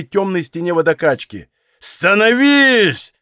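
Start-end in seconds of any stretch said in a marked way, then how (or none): 1.8-3.1 higher, louder, slow savage command; drawn-out shout at the wall; furious order. A narrator's reading. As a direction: bark it out with rage. Bunchuk dragging him to wall.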